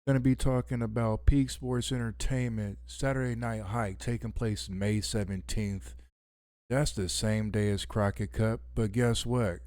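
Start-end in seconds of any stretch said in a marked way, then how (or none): 0.0-5.9 smooth late-night radio host intro. Real, not acted. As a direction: announce it like a radio show host. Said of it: "I am talking like a radio host".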